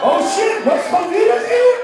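high, loud excited yelp; startled loud outburst; surprised shout. Real, not acted. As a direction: react loudly to the crowd.

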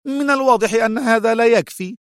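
high, cutting female retort; sharp. A narrator's reading. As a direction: reproach him sharply at high pitch. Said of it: "قالت في حدة".

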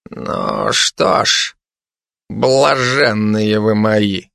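low, slow, agitated opening; trembling with agitation. Acted. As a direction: begin the speech slowly, voice trembling. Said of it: "начал он свою речь дрожащим от волнения голосом". (дрожащим от волнения голосом)

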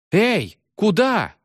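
high, drawn-out shout after her; yell. A narrator's reading. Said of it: "заорал мальчик". (растерянный крик вдогонку)

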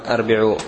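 "أربعوا" said arbi'u, with opening a; the wrong arbi'u form of "أربعوا"; mistaken form. Shown as a demonstration. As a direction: say "أربعوا" with a first and i after the b. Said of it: "كما قد يتوهم".

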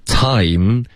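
"Time" with a full glide from ah to ee; full diphthong. Shown as a demonstration. Teacher showing the double vowel, fully glided. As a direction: stretch the vowel in "Time" before closing the lips. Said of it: "我们这里有一个双元音".

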